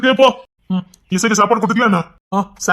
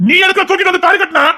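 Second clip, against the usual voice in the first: indignant question; 8 semitones higher than usual. Acted. Wife confronts husband.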